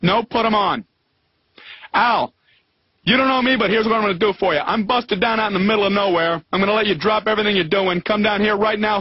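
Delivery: bossy tough guy. Retold or imitated. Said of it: "You don't call up Al's Towing".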